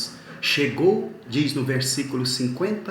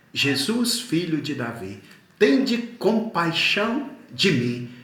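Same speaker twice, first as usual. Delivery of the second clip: repeated plea, slow and high at its peak; mild preacher's version of crying out; retold cry; 4 semitones higher than usual. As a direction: imitate a beggar calling out for mercy. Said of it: "Ele começa a gritar".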